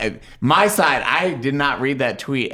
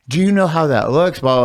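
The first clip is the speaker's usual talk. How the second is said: raised, higher scolding voice; mock scolding; 6 semitones higher, 5 dB louder, faster than usual. Boss calling him out over a posted story, mock scolding. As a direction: imitate an accusing boss.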